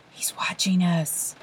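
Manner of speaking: slow frightened whisper. A narrator's reading. A frightened boy whispers to Olive in the dark forest, slow whisper. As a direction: breathe it out, scared of being overheard. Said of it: "Morton whispered".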